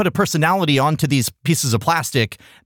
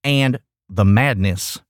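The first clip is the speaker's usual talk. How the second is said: dramatic; 7 semitones lower, slower than usual. Acted. Dramatic buildup of toy craze.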